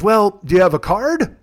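lightly voiced old man, slow rising question; a hint of a grandpa's unhurried query; Officer Irwin. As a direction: slowly ask after a "card", rising at the end. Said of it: "like you're a grandpa".

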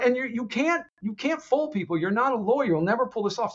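high, mocking retort; dismissive retort. Constantine dismissing his new lawyer, high mocking retort. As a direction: brush her off with scorn.

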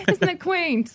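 high, drawn-out cooing; mock condescending admiration. Playing a London visitor charmed by Boston's buildings, mock condescending. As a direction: coo it slowly, high and patronizing.

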